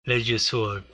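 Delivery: French read with a Spanish accent; Spanish accent on the French words. Shown as a demonstration. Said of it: "I say it almost in a Spanish accent".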